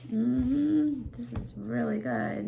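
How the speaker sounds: mellow, contented calm. Shown as a demonstration. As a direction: show an easy, unruffled approval. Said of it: "but it's a calm".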